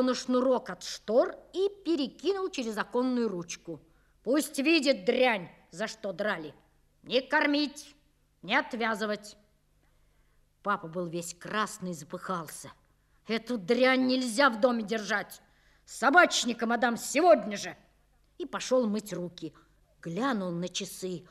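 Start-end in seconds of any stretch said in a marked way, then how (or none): 4.2-9.4 angry orders. Acted. Father tying up dog, angry. 13.3-17.8 angry demand. Acted. Father still furious.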